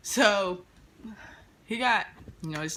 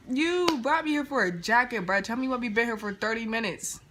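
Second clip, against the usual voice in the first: retold heated yell; 5 semitones higher, 4 dB louder than usual. Yelling at the dude.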